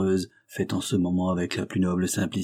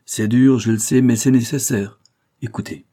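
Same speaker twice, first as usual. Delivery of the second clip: louder, higher, emphatic insistence; firm, insistent adviser; 3 semitones higher, 8 dB louder than usual. Acted. Adviser overruling the reluctant cashier, firm. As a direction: drive home that it must be done.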